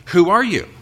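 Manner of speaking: a sudden high, loud demand from the Jerusalem priests; questioning leaders. Acted. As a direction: fire the question at him like an interrogator. Leaders question John the Baptist.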